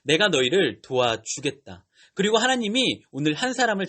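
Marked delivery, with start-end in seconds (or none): 0.0-1.8 slow, lower-pitched voice of God; unhurried divine promise, pitched down; God speaking. Retold or imitated. God answers the suffering Israelites, in a slow divine voice. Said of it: "하나님께서 이렇게 말씀하세요".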